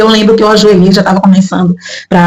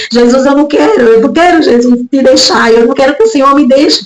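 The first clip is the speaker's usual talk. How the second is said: higher-pitched, pleading retold prayer; retold tearful plea; 5 semitones higher than usual. Daughter begging Jesus to forgive the wine, mildly tearful plea. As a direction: beg Jesus for forgiveness, without real sobs. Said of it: "eu comecei a chorar".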